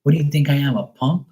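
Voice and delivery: a lightly acted offended girlfriend; indignant girlfriend. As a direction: play her affronted disbelief. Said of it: "she was like".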